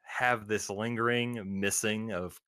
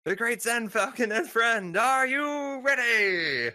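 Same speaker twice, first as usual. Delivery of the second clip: arena announcer call; 12 semitones higher than usual. Acted. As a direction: stretch it out like a ring announcer. Announcer introducing fighters to crowd.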